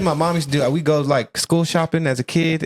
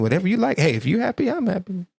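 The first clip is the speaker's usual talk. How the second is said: raised pitch, mock breezy approval; lightly put-on passive-aggressive agreement; 6 semitones higher, 3 dB quieter, faster than usual. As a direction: pretend to approve while clearly judging. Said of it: "a little bit passive aggressive".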